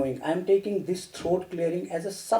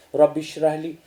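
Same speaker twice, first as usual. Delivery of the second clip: recited prayer; 2 semitones lower than usual. Shown as a demonstration. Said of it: "That's a wonderful prayer".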